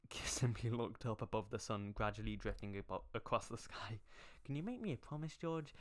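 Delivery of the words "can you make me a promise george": high mock-solemn plea; hammed-up solemn plea. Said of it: "Dream said solemnly".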